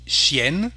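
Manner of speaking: chienne ending in "enn", N fully sounded. Shown as a demonstration. Teacher giving the female word for dog, sounded N. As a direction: say chienne as "shyenn", rising at the end. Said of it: "we have the sound N".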